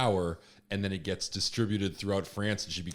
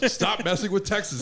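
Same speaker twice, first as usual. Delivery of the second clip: laughing, high and loud; laughing mock threat; 11 semitones higher, 5 dB louder than usual. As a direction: giggle through a mock warning.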